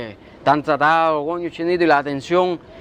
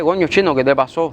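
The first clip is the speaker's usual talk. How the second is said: acted concerned question, easing down at the end; measured, understanding check-in; considerate asking; faster than usual. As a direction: ask what happened without scolding. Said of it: "tú, tú pregúntame".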